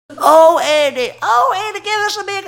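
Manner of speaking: put-on high, sing-song old-lady coo; gushing old ladies. Old ladies greet Andy with a high, gushing coo. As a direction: coo over him like doting church ladies.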